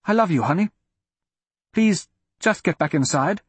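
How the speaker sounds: put-on high, strained confession to a child; pleading confession. A narrator's reading. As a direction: confess and beg her to understand.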